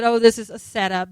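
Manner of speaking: loud, indignant-style mock outcry; mock protest. Host voicing a party's imagined excuse, mock outcry. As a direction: cry foul on their behalf, loudly.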